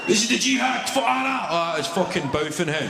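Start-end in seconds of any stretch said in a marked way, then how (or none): 0.1-1.5 high, loud mock battle cry; comic shouted zealot voice; mock jihadi cry. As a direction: ham up a fanatic's war cry. Mock terrorist shout quote.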